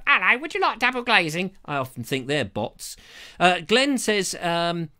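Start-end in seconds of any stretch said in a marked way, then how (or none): 0.1-1.5 cold caller. Retold or imitated. Cold caller ringing about double glazing, mock chirpy salesman. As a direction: put on a perky sales-call voice. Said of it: "ring me up and go".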